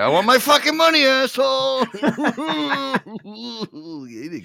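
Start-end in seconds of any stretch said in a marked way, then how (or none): 0.0-1.9 high, loud furious shout; screaming demand for money; angry yell. Retold or imitated. Guy yelling at debtor, retold. 1.9-3.1 manic laugh. Retold or imitated. Laugh in the high put-on voice.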